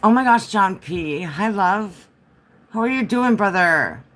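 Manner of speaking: high, loud happy hello; excited greeting. Real, not acted. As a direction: greet a friend with joy. Greeting a viewer in chat.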